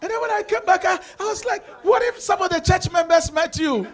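retold alarm. Retelling worried self-talk.

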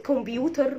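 "كمبيوتر" Arabic-style, with a round "kom" and heavy T; mispronounced computer. Shown as a demonstration. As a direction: say "كمبيوتر" wrongly as "kom-byu-tar". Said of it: "ما اسمهاش كمبيوتر".

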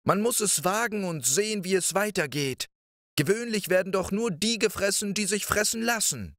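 put-on high, quick boyish voice; a small clever boy talking his way in; high little-boy voice, bright and pleading; little Däumling. Däumling persuades the wife.

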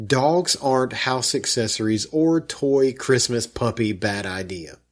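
slow, deliberate read of a bad sentence; mocking a clumsy comment. Shown as a demonstration. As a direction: read it out slowly to show how bad it is. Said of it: "Let me read you the sentence again".

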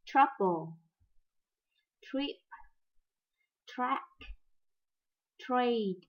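Trouble, trip, track, trade said carefully one by one; English tr sound. Shown as a demonstration. Teacher continues the tr word list. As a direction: keep modelling the tr words.

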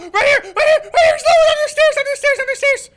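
loud excited callouts; calling out. Real, not acted. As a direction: shout it to your teammate. Calling out low enemy.

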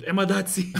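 high, loud mock shout breaking into laughter; retold yell. Retelling the friend's revenge on the plane, yelled. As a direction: yell it out gleefully, imitating the comeback. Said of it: "walked up to him and yelled".

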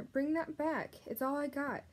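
high-pitched pleading shout; desperate shout. Acted. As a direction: call the rat back, high and desperate. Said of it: "shouted the prisoner".

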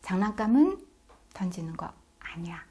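firm demonstration with a pause after 장난감은; firm unsmiling correction. Shown as a demonstration. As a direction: teach the rule calmly and seriously. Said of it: "다시 저랑 해볼게요".

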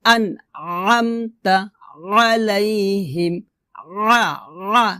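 slow tajweed with pressed ain; measured teaching recitation; repeat recitation. Shown as a demonstration. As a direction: recite drawn-out, squeezing the throat on ain. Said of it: "আমার সাথে বলেন".

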